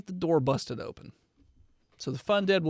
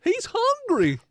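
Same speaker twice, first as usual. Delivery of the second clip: very high, loud hungry demon; creepy demonic voice; 12 semitones higher, 5 dB louder than usual. Acted. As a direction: screech it like a starving demon. Voicing the demonic Furby.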